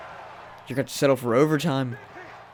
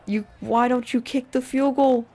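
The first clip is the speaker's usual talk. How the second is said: baffled outburst; 10 semitones higher than usual. Real, not acted. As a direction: yell at the coach in disbelief. Baffled yelling at coach.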